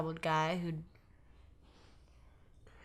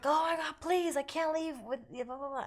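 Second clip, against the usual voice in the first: mock desperate begging; 10 semitones higher than usual. Ex-boyfriend begging her not to leave, high and frantic.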